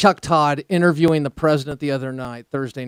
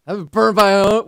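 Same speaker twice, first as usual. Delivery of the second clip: mock whine that rises; rising mock complaint; 4 semitones higher, 7 dB louder than usual. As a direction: ask it in mock self-pity.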